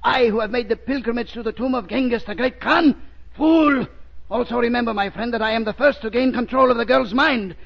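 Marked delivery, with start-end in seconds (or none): 3.4-3.9 angry shout. Acted. Villain scorns the Shadow.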